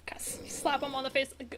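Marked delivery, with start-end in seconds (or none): 1.4-1.4 loud wake-up call. Acted. Louder wake-up greetings.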